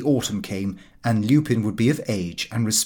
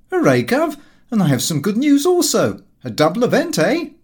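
higher, louder jubilant cry; cheering son; 9 semitones higher, 5 dB louder than usual. Acted. Lupin cheering his father at supper, high and loud. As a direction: burst out with the good news.

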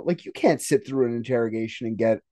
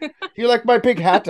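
mock upper-class British voice, higher; hammy posh English accent; 9 semitones higher, 4 dB louder than usual. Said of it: "I don't know how to do a fucking accent".

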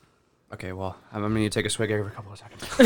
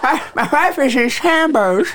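high laughing misery; pained laughing; 8 semitones higher, slower than usual. Real, not acted. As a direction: laugh about your own suffering. In pain, laughing.

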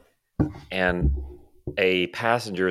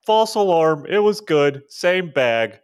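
very high, chirpy fake-cheery voice; breezy, overly friendly act; playing dumb; 8 semitones higher, 4 dB louder than usual. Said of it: "I'll be like".

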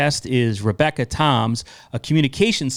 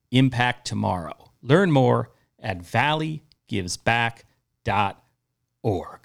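ad read. Acted. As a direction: read it like a radio spot. Reads sponsor message.

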